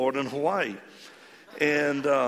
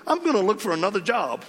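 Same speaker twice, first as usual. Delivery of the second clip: excited; 9 semitones higher, 6 dB louder than usual. Real, not acted. Excited climax of the story.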